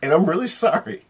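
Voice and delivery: lightly voiced lion, mock polite; a lion sorry but firm with the girl; a hint of a regretful predator; apologetic lion. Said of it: "The lion turns to the little girl and says".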